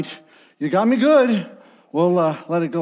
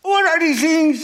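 pained shout; 9 semitones higher than usual. Acted. Dad after eating spicy chips.

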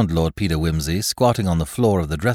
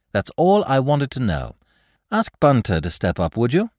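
lightly raised aristocrat; Lord Peter; 7 semitones higher, 3 dB louder than usual. Acted. Lord Peter dismissing Graves, light and pleasant.

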